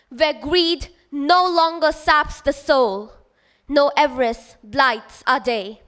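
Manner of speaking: measured poetry recital with deliberate pauses; poem recitation. Acted. Student reciting a poem to a festival audience, measured recitation. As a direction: recite it line by line, letting each phrase settle.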